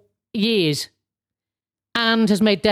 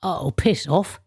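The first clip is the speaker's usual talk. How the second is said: slow, laughing brush-off; mock dismissal; 2 semitones lower, slower than usual. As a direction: wave it away with a laugh. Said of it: "you just go".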